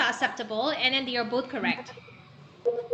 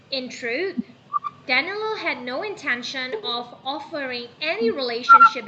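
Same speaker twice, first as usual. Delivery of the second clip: "In truth", clear pause, then carry on; pause at comma; 4 dB louder than usual. Shown as a demonstration. Teacher models comma reading for students, pausing after "In truth". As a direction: stop briefly after "truth" before "Danilo had no intention". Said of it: "pause for a while".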